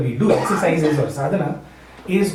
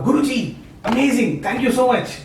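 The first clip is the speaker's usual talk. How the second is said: higher, eager thanks from the businessman; grateful excitement; 6 semitones higher than usual. Retold or imitated. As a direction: gush thanks to the guru, a little hammed-up. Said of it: "comes back to his Guruji and says".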